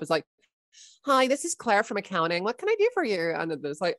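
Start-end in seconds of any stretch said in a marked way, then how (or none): 1.1-3.3 much higher, chirpy office receptionist; sweet, high, helpful accounts clerk; Claire from accounting. Acted. Claire from accounting answering the call in a much higher cheery voice. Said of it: "I'm gonna make someone up".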